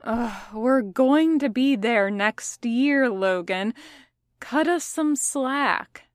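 slow, drawn-out whine; mock whine; whining. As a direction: plead for slack. Roman whines at Logan.

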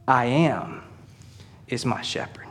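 I am is my shepherd whispered, almost no voice; whispered awe. Shown as a demonstration. Preacher to church, whispering the meaning of the name. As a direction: breathe it like a secret to the congregation. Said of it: "he says".

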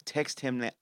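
hiccuping mid-sentence; with hiccups. Real, not acted. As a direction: speak through the hiccups. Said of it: "Excuse me, I got hiccups".

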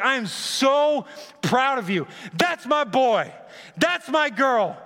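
high and slow, beaming with pride; proud father cheering. Acted. God cheering on his children, high and slow with pride. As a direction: savour every word like a proud dad.

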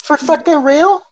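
slow, very high-pitched disbelief; incredulous. Real, not acted. Host learning the guest was already talking, incredulous.

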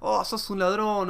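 slow mock accusation; imitated complaining. People accusing him of stealing, imitated complaint. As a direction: drag it out like a complainer. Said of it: "ver gente quejándose o diciéndome".

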